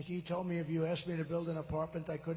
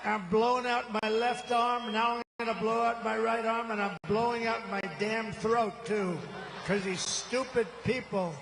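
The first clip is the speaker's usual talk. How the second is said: real seething; 3 semitones higher than usual. Real, not acted. Speaker fuming at the crowd over a bad mic, angry. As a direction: vent about the broken mic. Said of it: "I'm up here seething".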